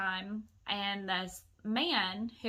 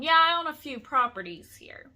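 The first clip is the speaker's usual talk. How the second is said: loud, higher mock call; retold yelling down; 5 semitones higher, 9 dB louder than usual. Man yells down to women about his properties, loud retold call. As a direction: imitate a man boasting from a balcony. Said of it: "yelling down".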